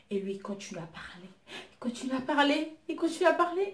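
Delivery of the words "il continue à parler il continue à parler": ramp up the irritation on every repeat; building exasperation. Real, not acted. Telling friends about the chatty date, voice climbing higher.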